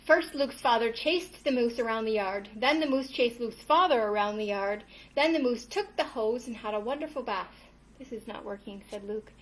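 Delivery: lively picture-book storytelling; reading to children. A narrator's reading. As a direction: read the tale aloud to little ones. Reads picture book to kids.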